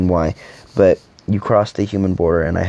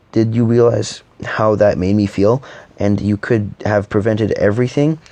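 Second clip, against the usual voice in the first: hurt, upset outburst; 3 semitones higher than usual. Acted. To the lover who abandoned him, hurt and upset. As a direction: demand answers from the one who ran away.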